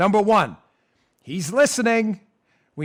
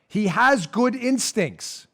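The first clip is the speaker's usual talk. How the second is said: slow emphatic; 4 semitones higher, much slower than usual. Shown as a demonstration. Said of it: "I wrote it down".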